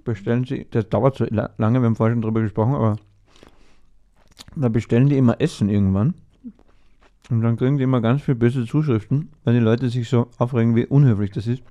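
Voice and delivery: talking while chewing gum; words round a big gum; mouth full. Real, not acted. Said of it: "jetzt darf ich so reden".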